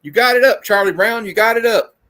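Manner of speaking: high, loud mock yell at Charlie Brown; bossy shout like Lucy; hammed-up cartoon yell. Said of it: "Lucy yelling at Charlie Brown".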